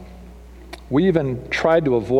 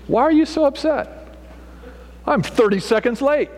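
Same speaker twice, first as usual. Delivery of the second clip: mock gracious driver; 3 semitones higher than usual. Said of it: "what are you hoping their response".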